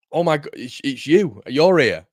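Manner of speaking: mock excited fan.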